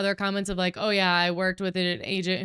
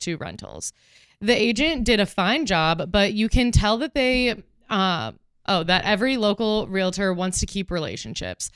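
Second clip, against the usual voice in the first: deliberate, every syllable sounded out; sounding out words. Shown as a demonstration. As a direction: read it out word by word, a touch dramatic. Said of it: "She is gonna sound out every word and give us a great delivery".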